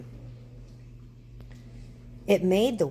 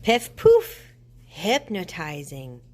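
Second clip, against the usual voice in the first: murmuring witch; 6 dB louder, slower than usual. A narrator's reading. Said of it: "murmured Naggy Witch".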